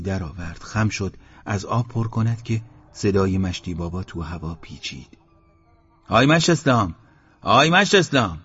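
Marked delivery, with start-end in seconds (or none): 6.1-8.4 called out loud across the yard, falling at the end; calling out. A narrator's reading. Old man on the roof calls Eslam, long loud call. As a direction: shout his name from the rooftop hole.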